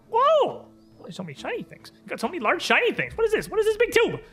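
very high-pitched squeaky imp voice; tiny excited creature, way up high; pixie. Acted. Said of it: "a strange, very high-pitched voice".

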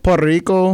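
Puerto Rico with a rolled R in Rico; a showy rolled R on Puerto Rico. Shown as a demonstration. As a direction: trill the R in Rico. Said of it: "If you're gonna roll the R".

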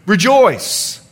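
rejoice given weight with a falling tune; stress on rejoice. Shown as a demonstration. Pastor to congregation, stressing the key word rejoice. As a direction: lean on rejoice and let it fall. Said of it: "I emphasize the words".

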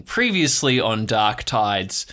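slow, weighty TV announcer opening; dramatic recap. Acted. Host opening the recap like a TV announcer.

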